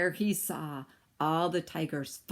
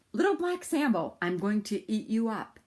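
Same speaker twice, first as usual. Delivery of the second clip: tiger voice; 4 semitones higher, 3 dB louder than usual. Acted. Tiger threatens Sambo.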